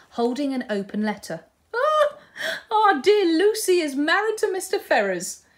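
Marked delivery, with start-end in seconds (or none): 1.7-5.3 very high, swooping, drawn-out shriek of delight. Holding an open letter, a woman interrupts a morning reading, shrieking with joy. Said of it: "shrieked with joy".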